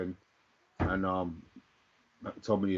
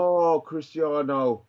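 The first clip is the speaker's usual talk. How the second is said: dismayed; 6 semitones higher, 6 dB louder, much slower than usual. Real, not acted. Dismay at offside.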